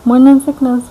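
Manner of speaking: slow, high, stretched-out threat; mock threat. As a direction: taunt it like a cartoon villain, slowly. Threatening morning sickness mockingly.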